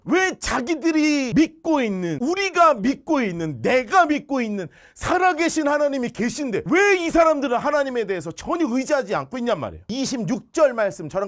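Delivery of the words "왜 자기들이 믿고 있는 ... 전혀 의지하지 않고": building indignant cry. Real, not acted. Preacher crying out at faithless soldiers, rising louder.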